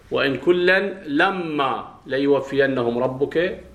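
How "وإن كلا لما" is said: "لما" slowly, with a long double m; slow recitation of "وإن كلا لما" with a doubled m; doubled-m reading. Shown as a demonstration. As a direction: hold the m of "لما" before the long aa. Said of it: "على قراءة من شدد".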